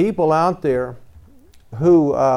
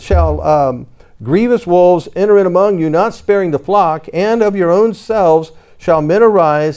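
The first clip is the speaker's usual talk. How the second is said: scripture reading. Acted. Reads scripture warning aloud.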